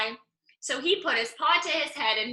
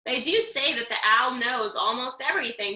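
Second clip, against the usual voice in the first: slowly. Acted. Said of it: "she said slowly".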